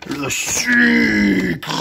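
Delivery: calling out. Pretend. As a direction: burst out calling for it. Calls out after whispered search.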